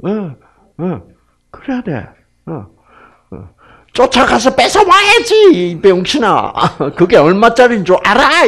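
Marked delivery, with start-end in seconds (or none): 3.9-8.4 high, loud angry scolding; scolding mother. Acted. Mother yelling at her child for letting his toy be taken, angry.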